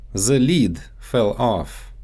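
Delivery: lid said as "leed" and The as "ze"; Russian-accented "lid" stretched to leed; The lid with a Russian z and long ee. Shown as a demonstration. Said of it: "so they often get mixed up in English".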